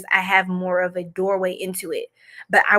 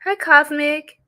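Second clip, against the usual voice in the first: mock Swedish; 5 semitones higher, slower than usual. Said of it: "I keep doing all these accents".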